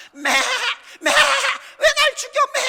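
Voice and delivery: high, slow screaming goat voice; goat bleat. Retold or imitated. Preacher imitates a goat crying out at slaughter, high, loud bleating. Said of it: "동네가 시끄럽습니다".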